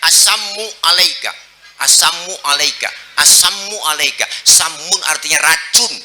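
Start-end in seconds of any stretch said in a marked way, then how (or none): 0.1-4.2 lightly voiced sneering unbeliever; mocking greeting. Unbeliever mocks the Prophet with a mild sneer. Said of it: "dia lain".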